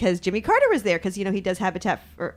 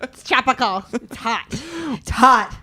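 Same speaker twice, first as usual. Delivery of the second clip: amused protest; 6 semitones higher, slower than usual. Real, not acted. Laughing back at the host's teasing.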